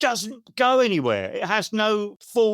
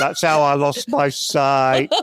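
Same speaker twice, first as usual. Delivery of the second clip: put-on much lower repeat of the punchline, northern accent; 7 semitones lower, 3 dB louder than usual. Poet repeating his grim last line over laughter, low northern accent. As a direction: drop deep for a northern-accented tag line. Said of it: "do it in a northern accent".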